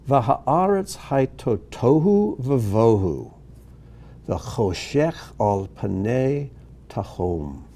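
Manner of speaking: slow, drawn-out syllables; measured Hebrew reading. Shown as a demonstration. Teacher reading verse two aloud for students, slow and deliberate. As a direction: read each phrase slowly, pausing between phrases.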